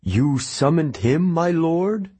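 high, alarmed question; worried rise on lord; tense servant. A narrator's reading. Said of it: "suddenly sounded tense".

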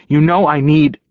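breaks off sharply mid sentence; cut off mid word. Acted. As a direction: stop dead, cutting yourself off. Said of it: "He cut himself off with a growl".

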